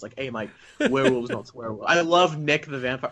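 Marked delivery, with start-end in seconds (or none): 0.2-1.8 laughing Kiwi film quote; New Zealand accent. Retold or imitated. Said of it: "so they all have the accents".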